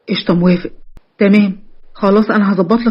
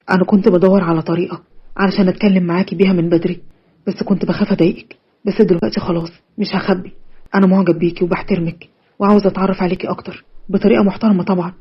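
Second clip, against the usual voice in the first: put-on lower, softer young man confessing; lightly lowered, tender voice of a shy suitor; sincere confession; 4 semitones lower, 3 dB quieter than usual. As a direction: open his heart carefully, gently.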